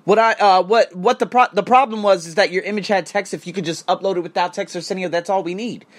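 polite agent voice. Retold or imitated. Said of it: "he could have said".

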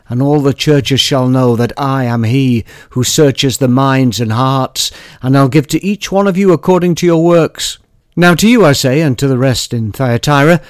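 solemn Bible reading, steady and measured; scripture reading. Acted. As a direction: read it like a church lesson. Reads scripture passage aloud.

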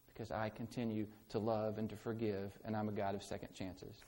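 a hushed promise to the worst failures; tender angel voice. Acted. Angel sending word to those who failed, hushed and tender. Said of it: "You need to hear the angel saying".

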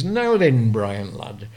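imitated Lancashire accent; strong Lancashire accent. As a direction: put on a broad Lancashire steward. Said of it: "in a strong Lancashire accent".

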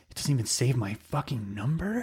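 mock white guy. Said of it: "a white person's like".

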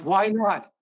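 mock-whiny son pushing back; retold protest.

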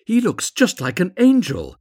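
high, loud awed exclamation; children's wonder. A narrator's reading. Charity children admiring the wonderful statue, high excited wonder.

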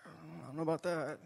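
hushed, as if not meant to be heard; whispered aside. Pretend. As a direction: whisper it, doubtful. Doubting aside to congregation.

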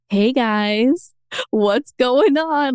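drawn-out, singsong hello to coworkers; imitating an idle, fishing-for-news ping; playful check-in. Retelling bored ping to her team.

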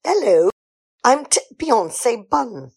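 slow, stiff self-introduction with the odd "tit"; stilted slow intro. Acted. Introducing herself to the group, slow and stiff. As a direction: deliberately plod through "I'm tit Beyonce Bun".

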